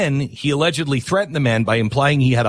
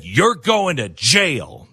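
slow threat; 2 semitones higher, much slower than usual. Retold or imitated. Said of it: "he said".

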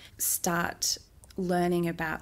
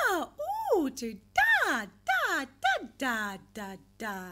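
put-on babbling baby sounds; 7 semitones higher than usual. Shown as a demonstration. Therapist imitating infant babbling, high playful da sounds. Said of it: "So they go from".

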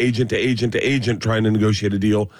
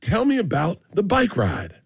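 slow, high mocking Black accent as a talk host; drawn-out, pitched-up mock Black accent imitating a host; racist Black accent; 8 semitones higher, slower than usual. Comic mocks a host interviewing guests in a Black accent. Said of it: "now I'm doing a racist black accent".

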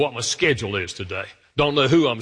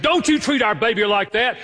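protective mother; 8 semitones higher than usual. Retold or imitated. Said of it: "I grabbed the baby and said".

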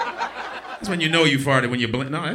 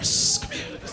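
hissed mock whisper; lightly voiced secretive hiss; ass whisper; slower than usual. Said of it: "The ass whisperer".

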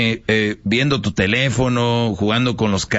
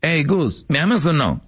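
put-on demanding girlfriend; 5 semitones higher than usual. Acted couple, woman repeats demand.

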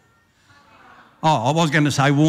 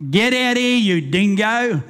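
cop calling out; 5 semitones higher, slower than usual. Acted. Cop yelling at hiding drunk.

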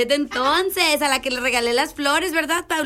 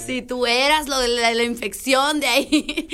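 laughing teasing. Real, not acted.

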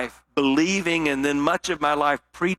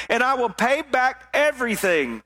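begging; 6 semitones higher than usual. Acted. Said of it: "he begged".

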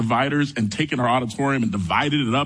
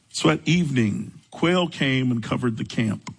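measured Bible reading with long pauses; unhurried reading from the pulpit; scripture reading; 4 semitones lower than usual. A narrator's reading. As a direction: read the verses evenly, slightly lowered. Reads scripture aloud.

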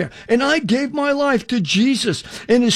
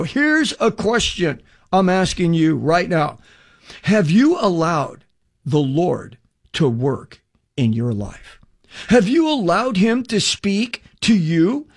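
slow, earnest questions to the listener; preaching appeal; slower than usual. Acted. Preacher asking radio listeners about their own lives, slow and earnest. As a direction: draw the listener in, one question at a time.

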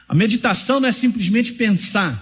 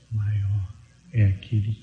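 very soft murmur; 11 semitones lower, 5 dB quieter, slower than usual. Shown as a demonstration. Pastor demonstrating a murmured meditation for the church. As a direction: lower and much softer, almost under the breath. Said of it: "Fala baixinho".

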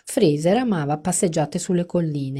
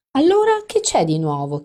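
1 cooperative question; 8 semitones higher, 6 dB louder than usual. A narrator's reading. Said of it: "chiesi collaborativa".

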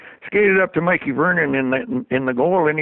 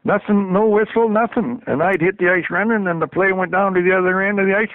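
usual speaking voice

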